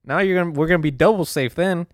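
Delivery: retort. Retold or imitated. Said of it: "I'm like".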